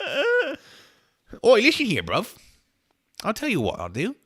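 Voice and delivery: loud, high mock-British banter; badly faked British bruv accent; terrible British accent. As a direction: accost them as a hammed-up Brit. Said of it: "My terrible, terrible accent".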